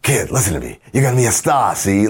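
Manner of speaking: lightly voiced old Hollywood agent; a hint of a fast-talking studio boss; old Hollywood character. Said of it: "my old Hollywood character".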